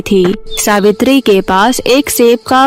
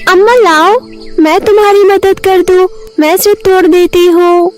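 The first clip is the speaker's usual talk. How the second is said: put-on high, sweetly offering girl voice; helpful girl; 8 semitones higher than usual. Fairy disguised as a girl offers Amma help, eager. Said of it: "Cinderella परी एक लड़की का रूप बदलकर".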